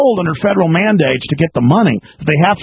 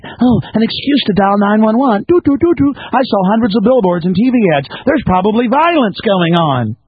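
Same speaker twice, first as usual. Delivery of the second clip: mocking nosy neighbor; 4 semitones higher than usual. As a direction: ham up the neighbor itching to dial nine one one. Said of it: "That's what they".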